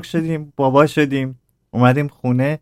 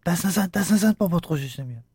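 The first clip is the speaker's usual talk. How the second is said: lightly voiced hushed mother; quick hushed telling-off, lightly imitated; mother warning a child; 3 semitones higher, 4 dB quieter than usual. Mother stops child touching radio.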